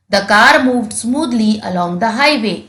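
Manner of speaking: very slow, word by word; slow dictation. Shown as a demonstration. Teacher dictates the sentence slowly to the class. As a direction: read it out slowly for children to write. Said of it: "dictates the sentence to students".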